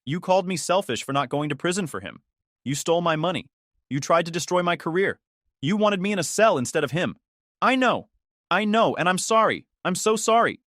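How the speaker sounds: mother sobbing her apology, understated. A narrator's reading. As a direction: break into a pleading sob at "I know". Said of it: "She was sobbing now".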